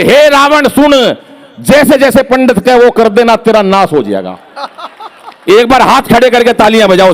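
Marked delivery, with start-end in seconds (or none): 0.0-4.4 muddled stage declamation. Acted. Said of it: "बोले".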